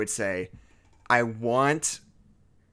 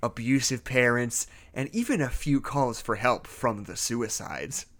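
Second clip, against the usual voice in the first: story narration. Acted. Reads creepypasta as narrator.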